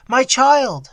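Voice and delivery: mother weeping over her daughter, high wail; tearful wail. Acted. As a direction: let the grief break loose. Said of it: "in a flood of tears".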